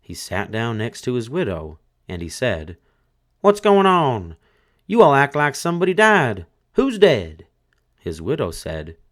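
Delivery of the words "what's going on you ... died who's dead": high, loud puzzled corpse voice; a dead man who thinks nothing's wrong; dead man asking. A narrator's reading. Dead husband to his grieving family, high and loud.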